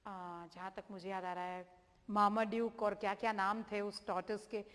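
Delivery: usual speaking voice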